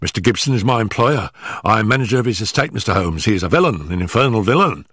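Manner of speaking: high, hurried, stammering nervous man; gasping, out of breath. Acted. Nervous manager warning Holmes before his employer arrives, gasping and hurried. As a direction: blurt it out in short frightened bursts. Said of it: "our visitor gasped, shooting out short sentences like a man who was out of breath".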